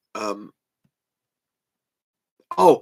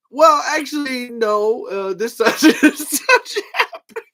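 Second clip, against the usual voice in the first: eager correction; 9 semitones higher, 6 dB louder, slower than usual. Retold or imitated. Himself correcting the cast, excited.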